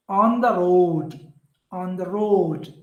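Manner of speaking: slow "on the road", landing on "road"; stress on road. Shown as a demonstration. Teacher giving anapest example, "on the road" stressed on "road". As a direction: keep "on the" weak and draw out "road". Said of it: "On and the are not stressed here".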